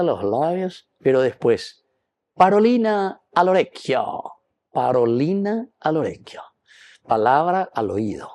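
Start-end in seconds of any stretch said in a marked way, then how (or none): 2.3-6.4 "Parolina al orecchio" lifted high, then gently lowered; gentle word in the ear. Retold or imitated. Don Bosco's gentle whisper phrase.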